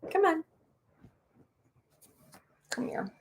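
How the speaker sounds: high, coaxing dog voice; squeaky mama-dog voice coaxing; voicing the dog. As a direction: play the mother dog calling her pup, high. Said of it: "in the doorway of the bathroom like".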